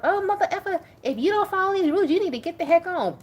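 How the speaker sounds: high, loud, fast hammed-up threat; exaggerated harsh boundary-setter, mocked; mock mean rant. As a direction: play an overbearing rule-enforcer. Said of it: "You don't have to walk".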